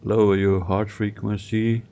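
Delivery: measured guiding voice with long pauses; guided visualisation. Real, not acted. Guide to client picturing a meadow, guided visualisation. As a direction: lead them gently through imagery, pausing between phrases.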